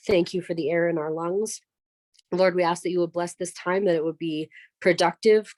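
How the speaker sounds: earnest spoken prayer. Acted. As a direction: pray it out for the group. Leads a morning prayer.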